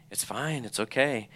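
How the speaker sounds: soft, soothing quoted reply; gentle reassurance. Retold or imitated. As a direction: quietly comfort someone who is upset. Mentor comforts him in retold exchange.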